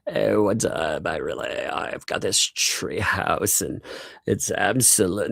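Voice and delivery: slow, drawn-out pretend boast; lightly acted pretend host; mock show-off. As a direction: put on a slow, casual show-off greeting. Acts out imagined treehouse owner, then refuses.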